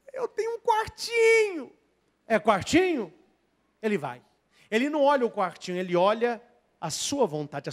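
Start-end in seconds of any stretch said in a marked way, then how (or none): 0.1-1.7 high shouting voice of the faithful; shouted cry. Acted. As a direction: shout it out proudly from the little room. Voicing a humble believer's cry.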